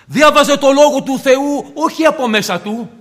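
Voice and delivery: reading aloud loudly. Shown as a demonstration. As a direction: boom the words out as if reading aloud. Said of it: "με δυνατή φωνή".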